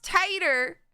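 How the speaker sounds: TIE-ter for "tighter", long i; first vowel of "tighter" as in "tie"; pronounced as "tighter". Shown as a demonstration. Streamer explaining the name's pronunciation, "tighter" with a long i. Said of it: "it's pronounced tighter".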